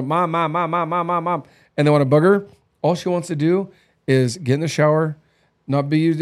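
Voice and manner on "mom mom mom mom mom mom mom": put-on a light take on a small child nagging for mom; whiny little kid. Husband imitating the kids pestering mom before date night, lightly whiny. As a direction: chant mom over and over like a clingy toddler. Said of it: "younger kids that just wanna".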